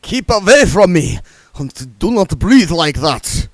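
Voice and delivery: loud high wail to keep her away; vampire wailing at the fainted lady. Acted. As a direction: cry out in panic. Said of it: "Otto wailed".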